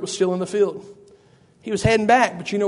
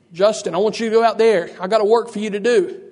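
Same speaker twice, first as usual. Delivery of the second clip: slightly raised calling voice; mock calling out. Preacher showing how God won't summon Justin, mock calling out. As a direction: call someone out to a job.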